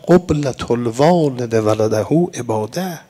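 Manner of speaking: slow, low, measured Arabic recitation of the hadith; quoting the Imam in Arabic. Retold or imitated. Preacher quoting the Imam's Arabic saying, slow and solemn. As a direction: intone the saying solemnly and slowly. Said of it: "فرمودن".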